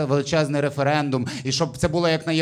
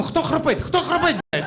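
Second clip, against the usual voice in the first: woken woman's shout; 11 semitones higher than usual. Retold or imitated. Woman woken in a train compartment shouts who is snoring, high and angry. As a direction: yell it like you just woke up furious. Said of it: "проснулась з криком".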